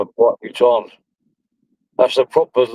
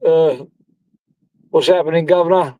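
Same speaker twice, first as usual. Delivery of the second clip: mock cockney greeting; 5 semitones higher than usual. Greeting mimicking a cockney bloke.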